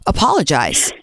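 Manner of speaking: incredulous scolding question, then a firm order; as if to a naughty child; talking down. Shown as a demonstration. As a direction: make them feel dumb. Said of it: "try to make her feel dumb".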